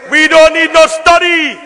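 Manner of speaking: a rallying repeat of the line; emphatic slogan. Real, not acted. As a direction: bang the slogan out to the chamber.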